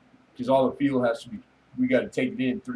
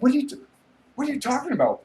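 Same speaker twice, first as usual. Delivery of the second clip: mock innocent woman; 14 semitones higher, 4 dB louder, much faster than usual. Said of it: "She's like".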